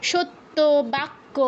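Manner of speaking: সত্য and বাক্য with the ত and ক held double; doubled consonant. Shown as a demonstration. Teacher demonstrating the japhala rule to students. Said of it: "তয়ের সাথে জফলা আছে".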